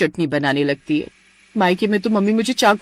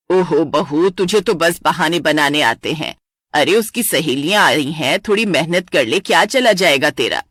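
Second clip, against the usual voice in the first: put-on lower, nagging older woman; taunting mother-in-law; 5 semitones lower than usual. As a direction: needle the bride.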